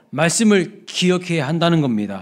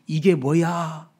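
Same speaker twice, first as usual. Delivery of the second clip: slow, unimpressed grumble; drawn-out mock complaint; wonder gone; much slower than usual. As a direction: act fed up with the same old thing. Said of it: "그 감동과 감탄이 사라집니다".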